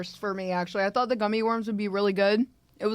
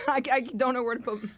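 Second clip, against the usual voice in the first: laughing; 3 semitones higher, much faster than usual. Real, not acted. Laughing at fingers of cereal.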